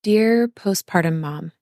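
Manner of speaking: slow, tender letter reading. Acted. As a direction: read it slowly, like a heartfelt letter. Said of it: "I'm gonna read it".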